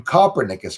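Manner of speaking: Copernicus said like "copper-nickus"; mispronounced Copernicus. Shown as a demonstration. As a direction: start Copernicus like the word "copper", stressed. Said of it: "I love saying it like that".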